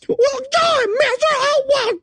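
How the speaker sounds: put-on squeaky high old-timey New York kid; whiny New Yorker kid from an old movie. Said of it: "combination of New York accent and old-timey voice".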